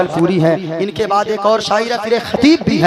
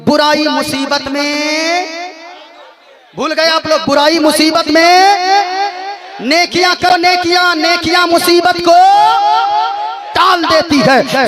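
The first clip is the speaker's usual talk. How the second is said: fiery preaching; 2 semitones higher than usual. Acted. Preacher retelling the mother's tale to the gathering, full preaching voice. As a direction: preach the parable full force to the crowd. Preacher tells story of three friends.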